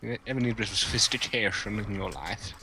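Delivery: lightly put-on posh London accent; posh London, a touch overdone. Shown as a demonstration. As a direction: offer it in posh London tones. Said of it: "a very posh London one".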